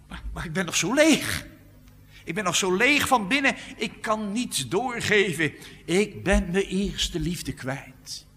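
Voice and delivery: hoger en luider, smekend uitgeroepen; de lege gelovige die zijn nood uitroept; klagende gelovige. Retold or imitated. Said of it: "denkt misschien". (als een gemeentelid dat zich leeg voelt, klagend en luid)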